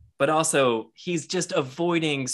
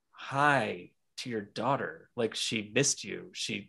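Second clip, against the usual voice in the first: soft pleading wife; 3 semitones lower, 7 dB quieter, slower than usual. Retold or imitated. Wife pleading in retold argument.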